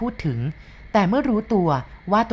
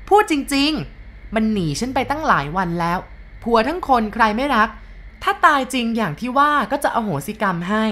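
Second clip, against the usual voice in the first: brash wife; 6 semitones higher than usual. A narrator's reading. (เมียปากกล้าบ่นเสียงดัง)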